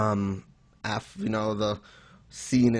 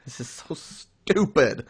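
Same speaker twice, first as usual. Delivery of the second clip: slow, fed-up groan of disbelief; exasperated reaction; slower than usual. Retold or imitated. Retelling his reaction to the bad chapter, slow and fed up. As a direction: drag it out, utterly done with it. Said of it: "my reaction to this chapter".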